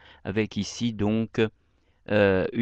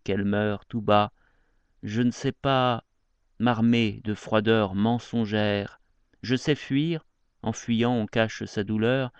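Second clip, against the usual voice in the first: measured elegy reading, verse by verse; poem recitation. Acted. Reading an elegy to a lost love aloud, poetry recitation. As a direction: recite the verses with deliberate pauses.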